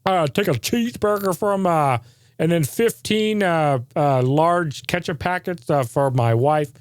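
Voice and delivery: slow, rambling order of a dim customer; a lightly voiced dim customer at the drive-thru; mock clueless customer. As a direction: drag out the order like a confused guy. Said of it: "you deal with this guy".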